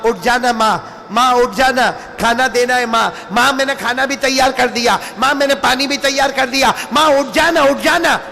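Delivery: put-on a son gently rouses his old mother; gently coaxing. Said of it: "دھیرے دھیرے کیا بولے". (نرمی سے ماں کو جگاتے ہوئے)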